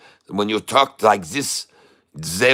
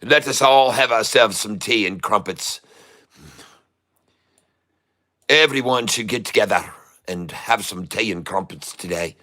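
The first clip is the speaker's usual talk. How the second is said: hammed-up posh British English accent; mock British accent. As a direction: play a stuffy Englishman over tea, British accent. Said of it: "I do indeed try to replicate the voices of people from other places".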